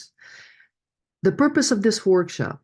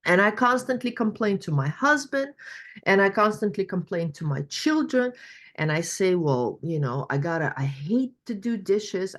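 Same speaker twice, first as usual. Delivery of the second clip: a hint of a higher complaining woman; slightly raised voice, weary griping; lightly voiced participant; 4 semitones higher than usual. Coach voices a participant complaining about dishes, lightly higher. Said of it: "She goes".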